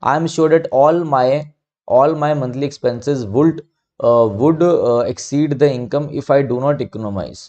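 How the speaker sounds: very slow, word-by-word read of an example sentence; slow dictation reading. Shown as a demonstration. Teacher reading an exercise sentence to students, slow and deliberate. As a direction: read it out slowly for students to follow.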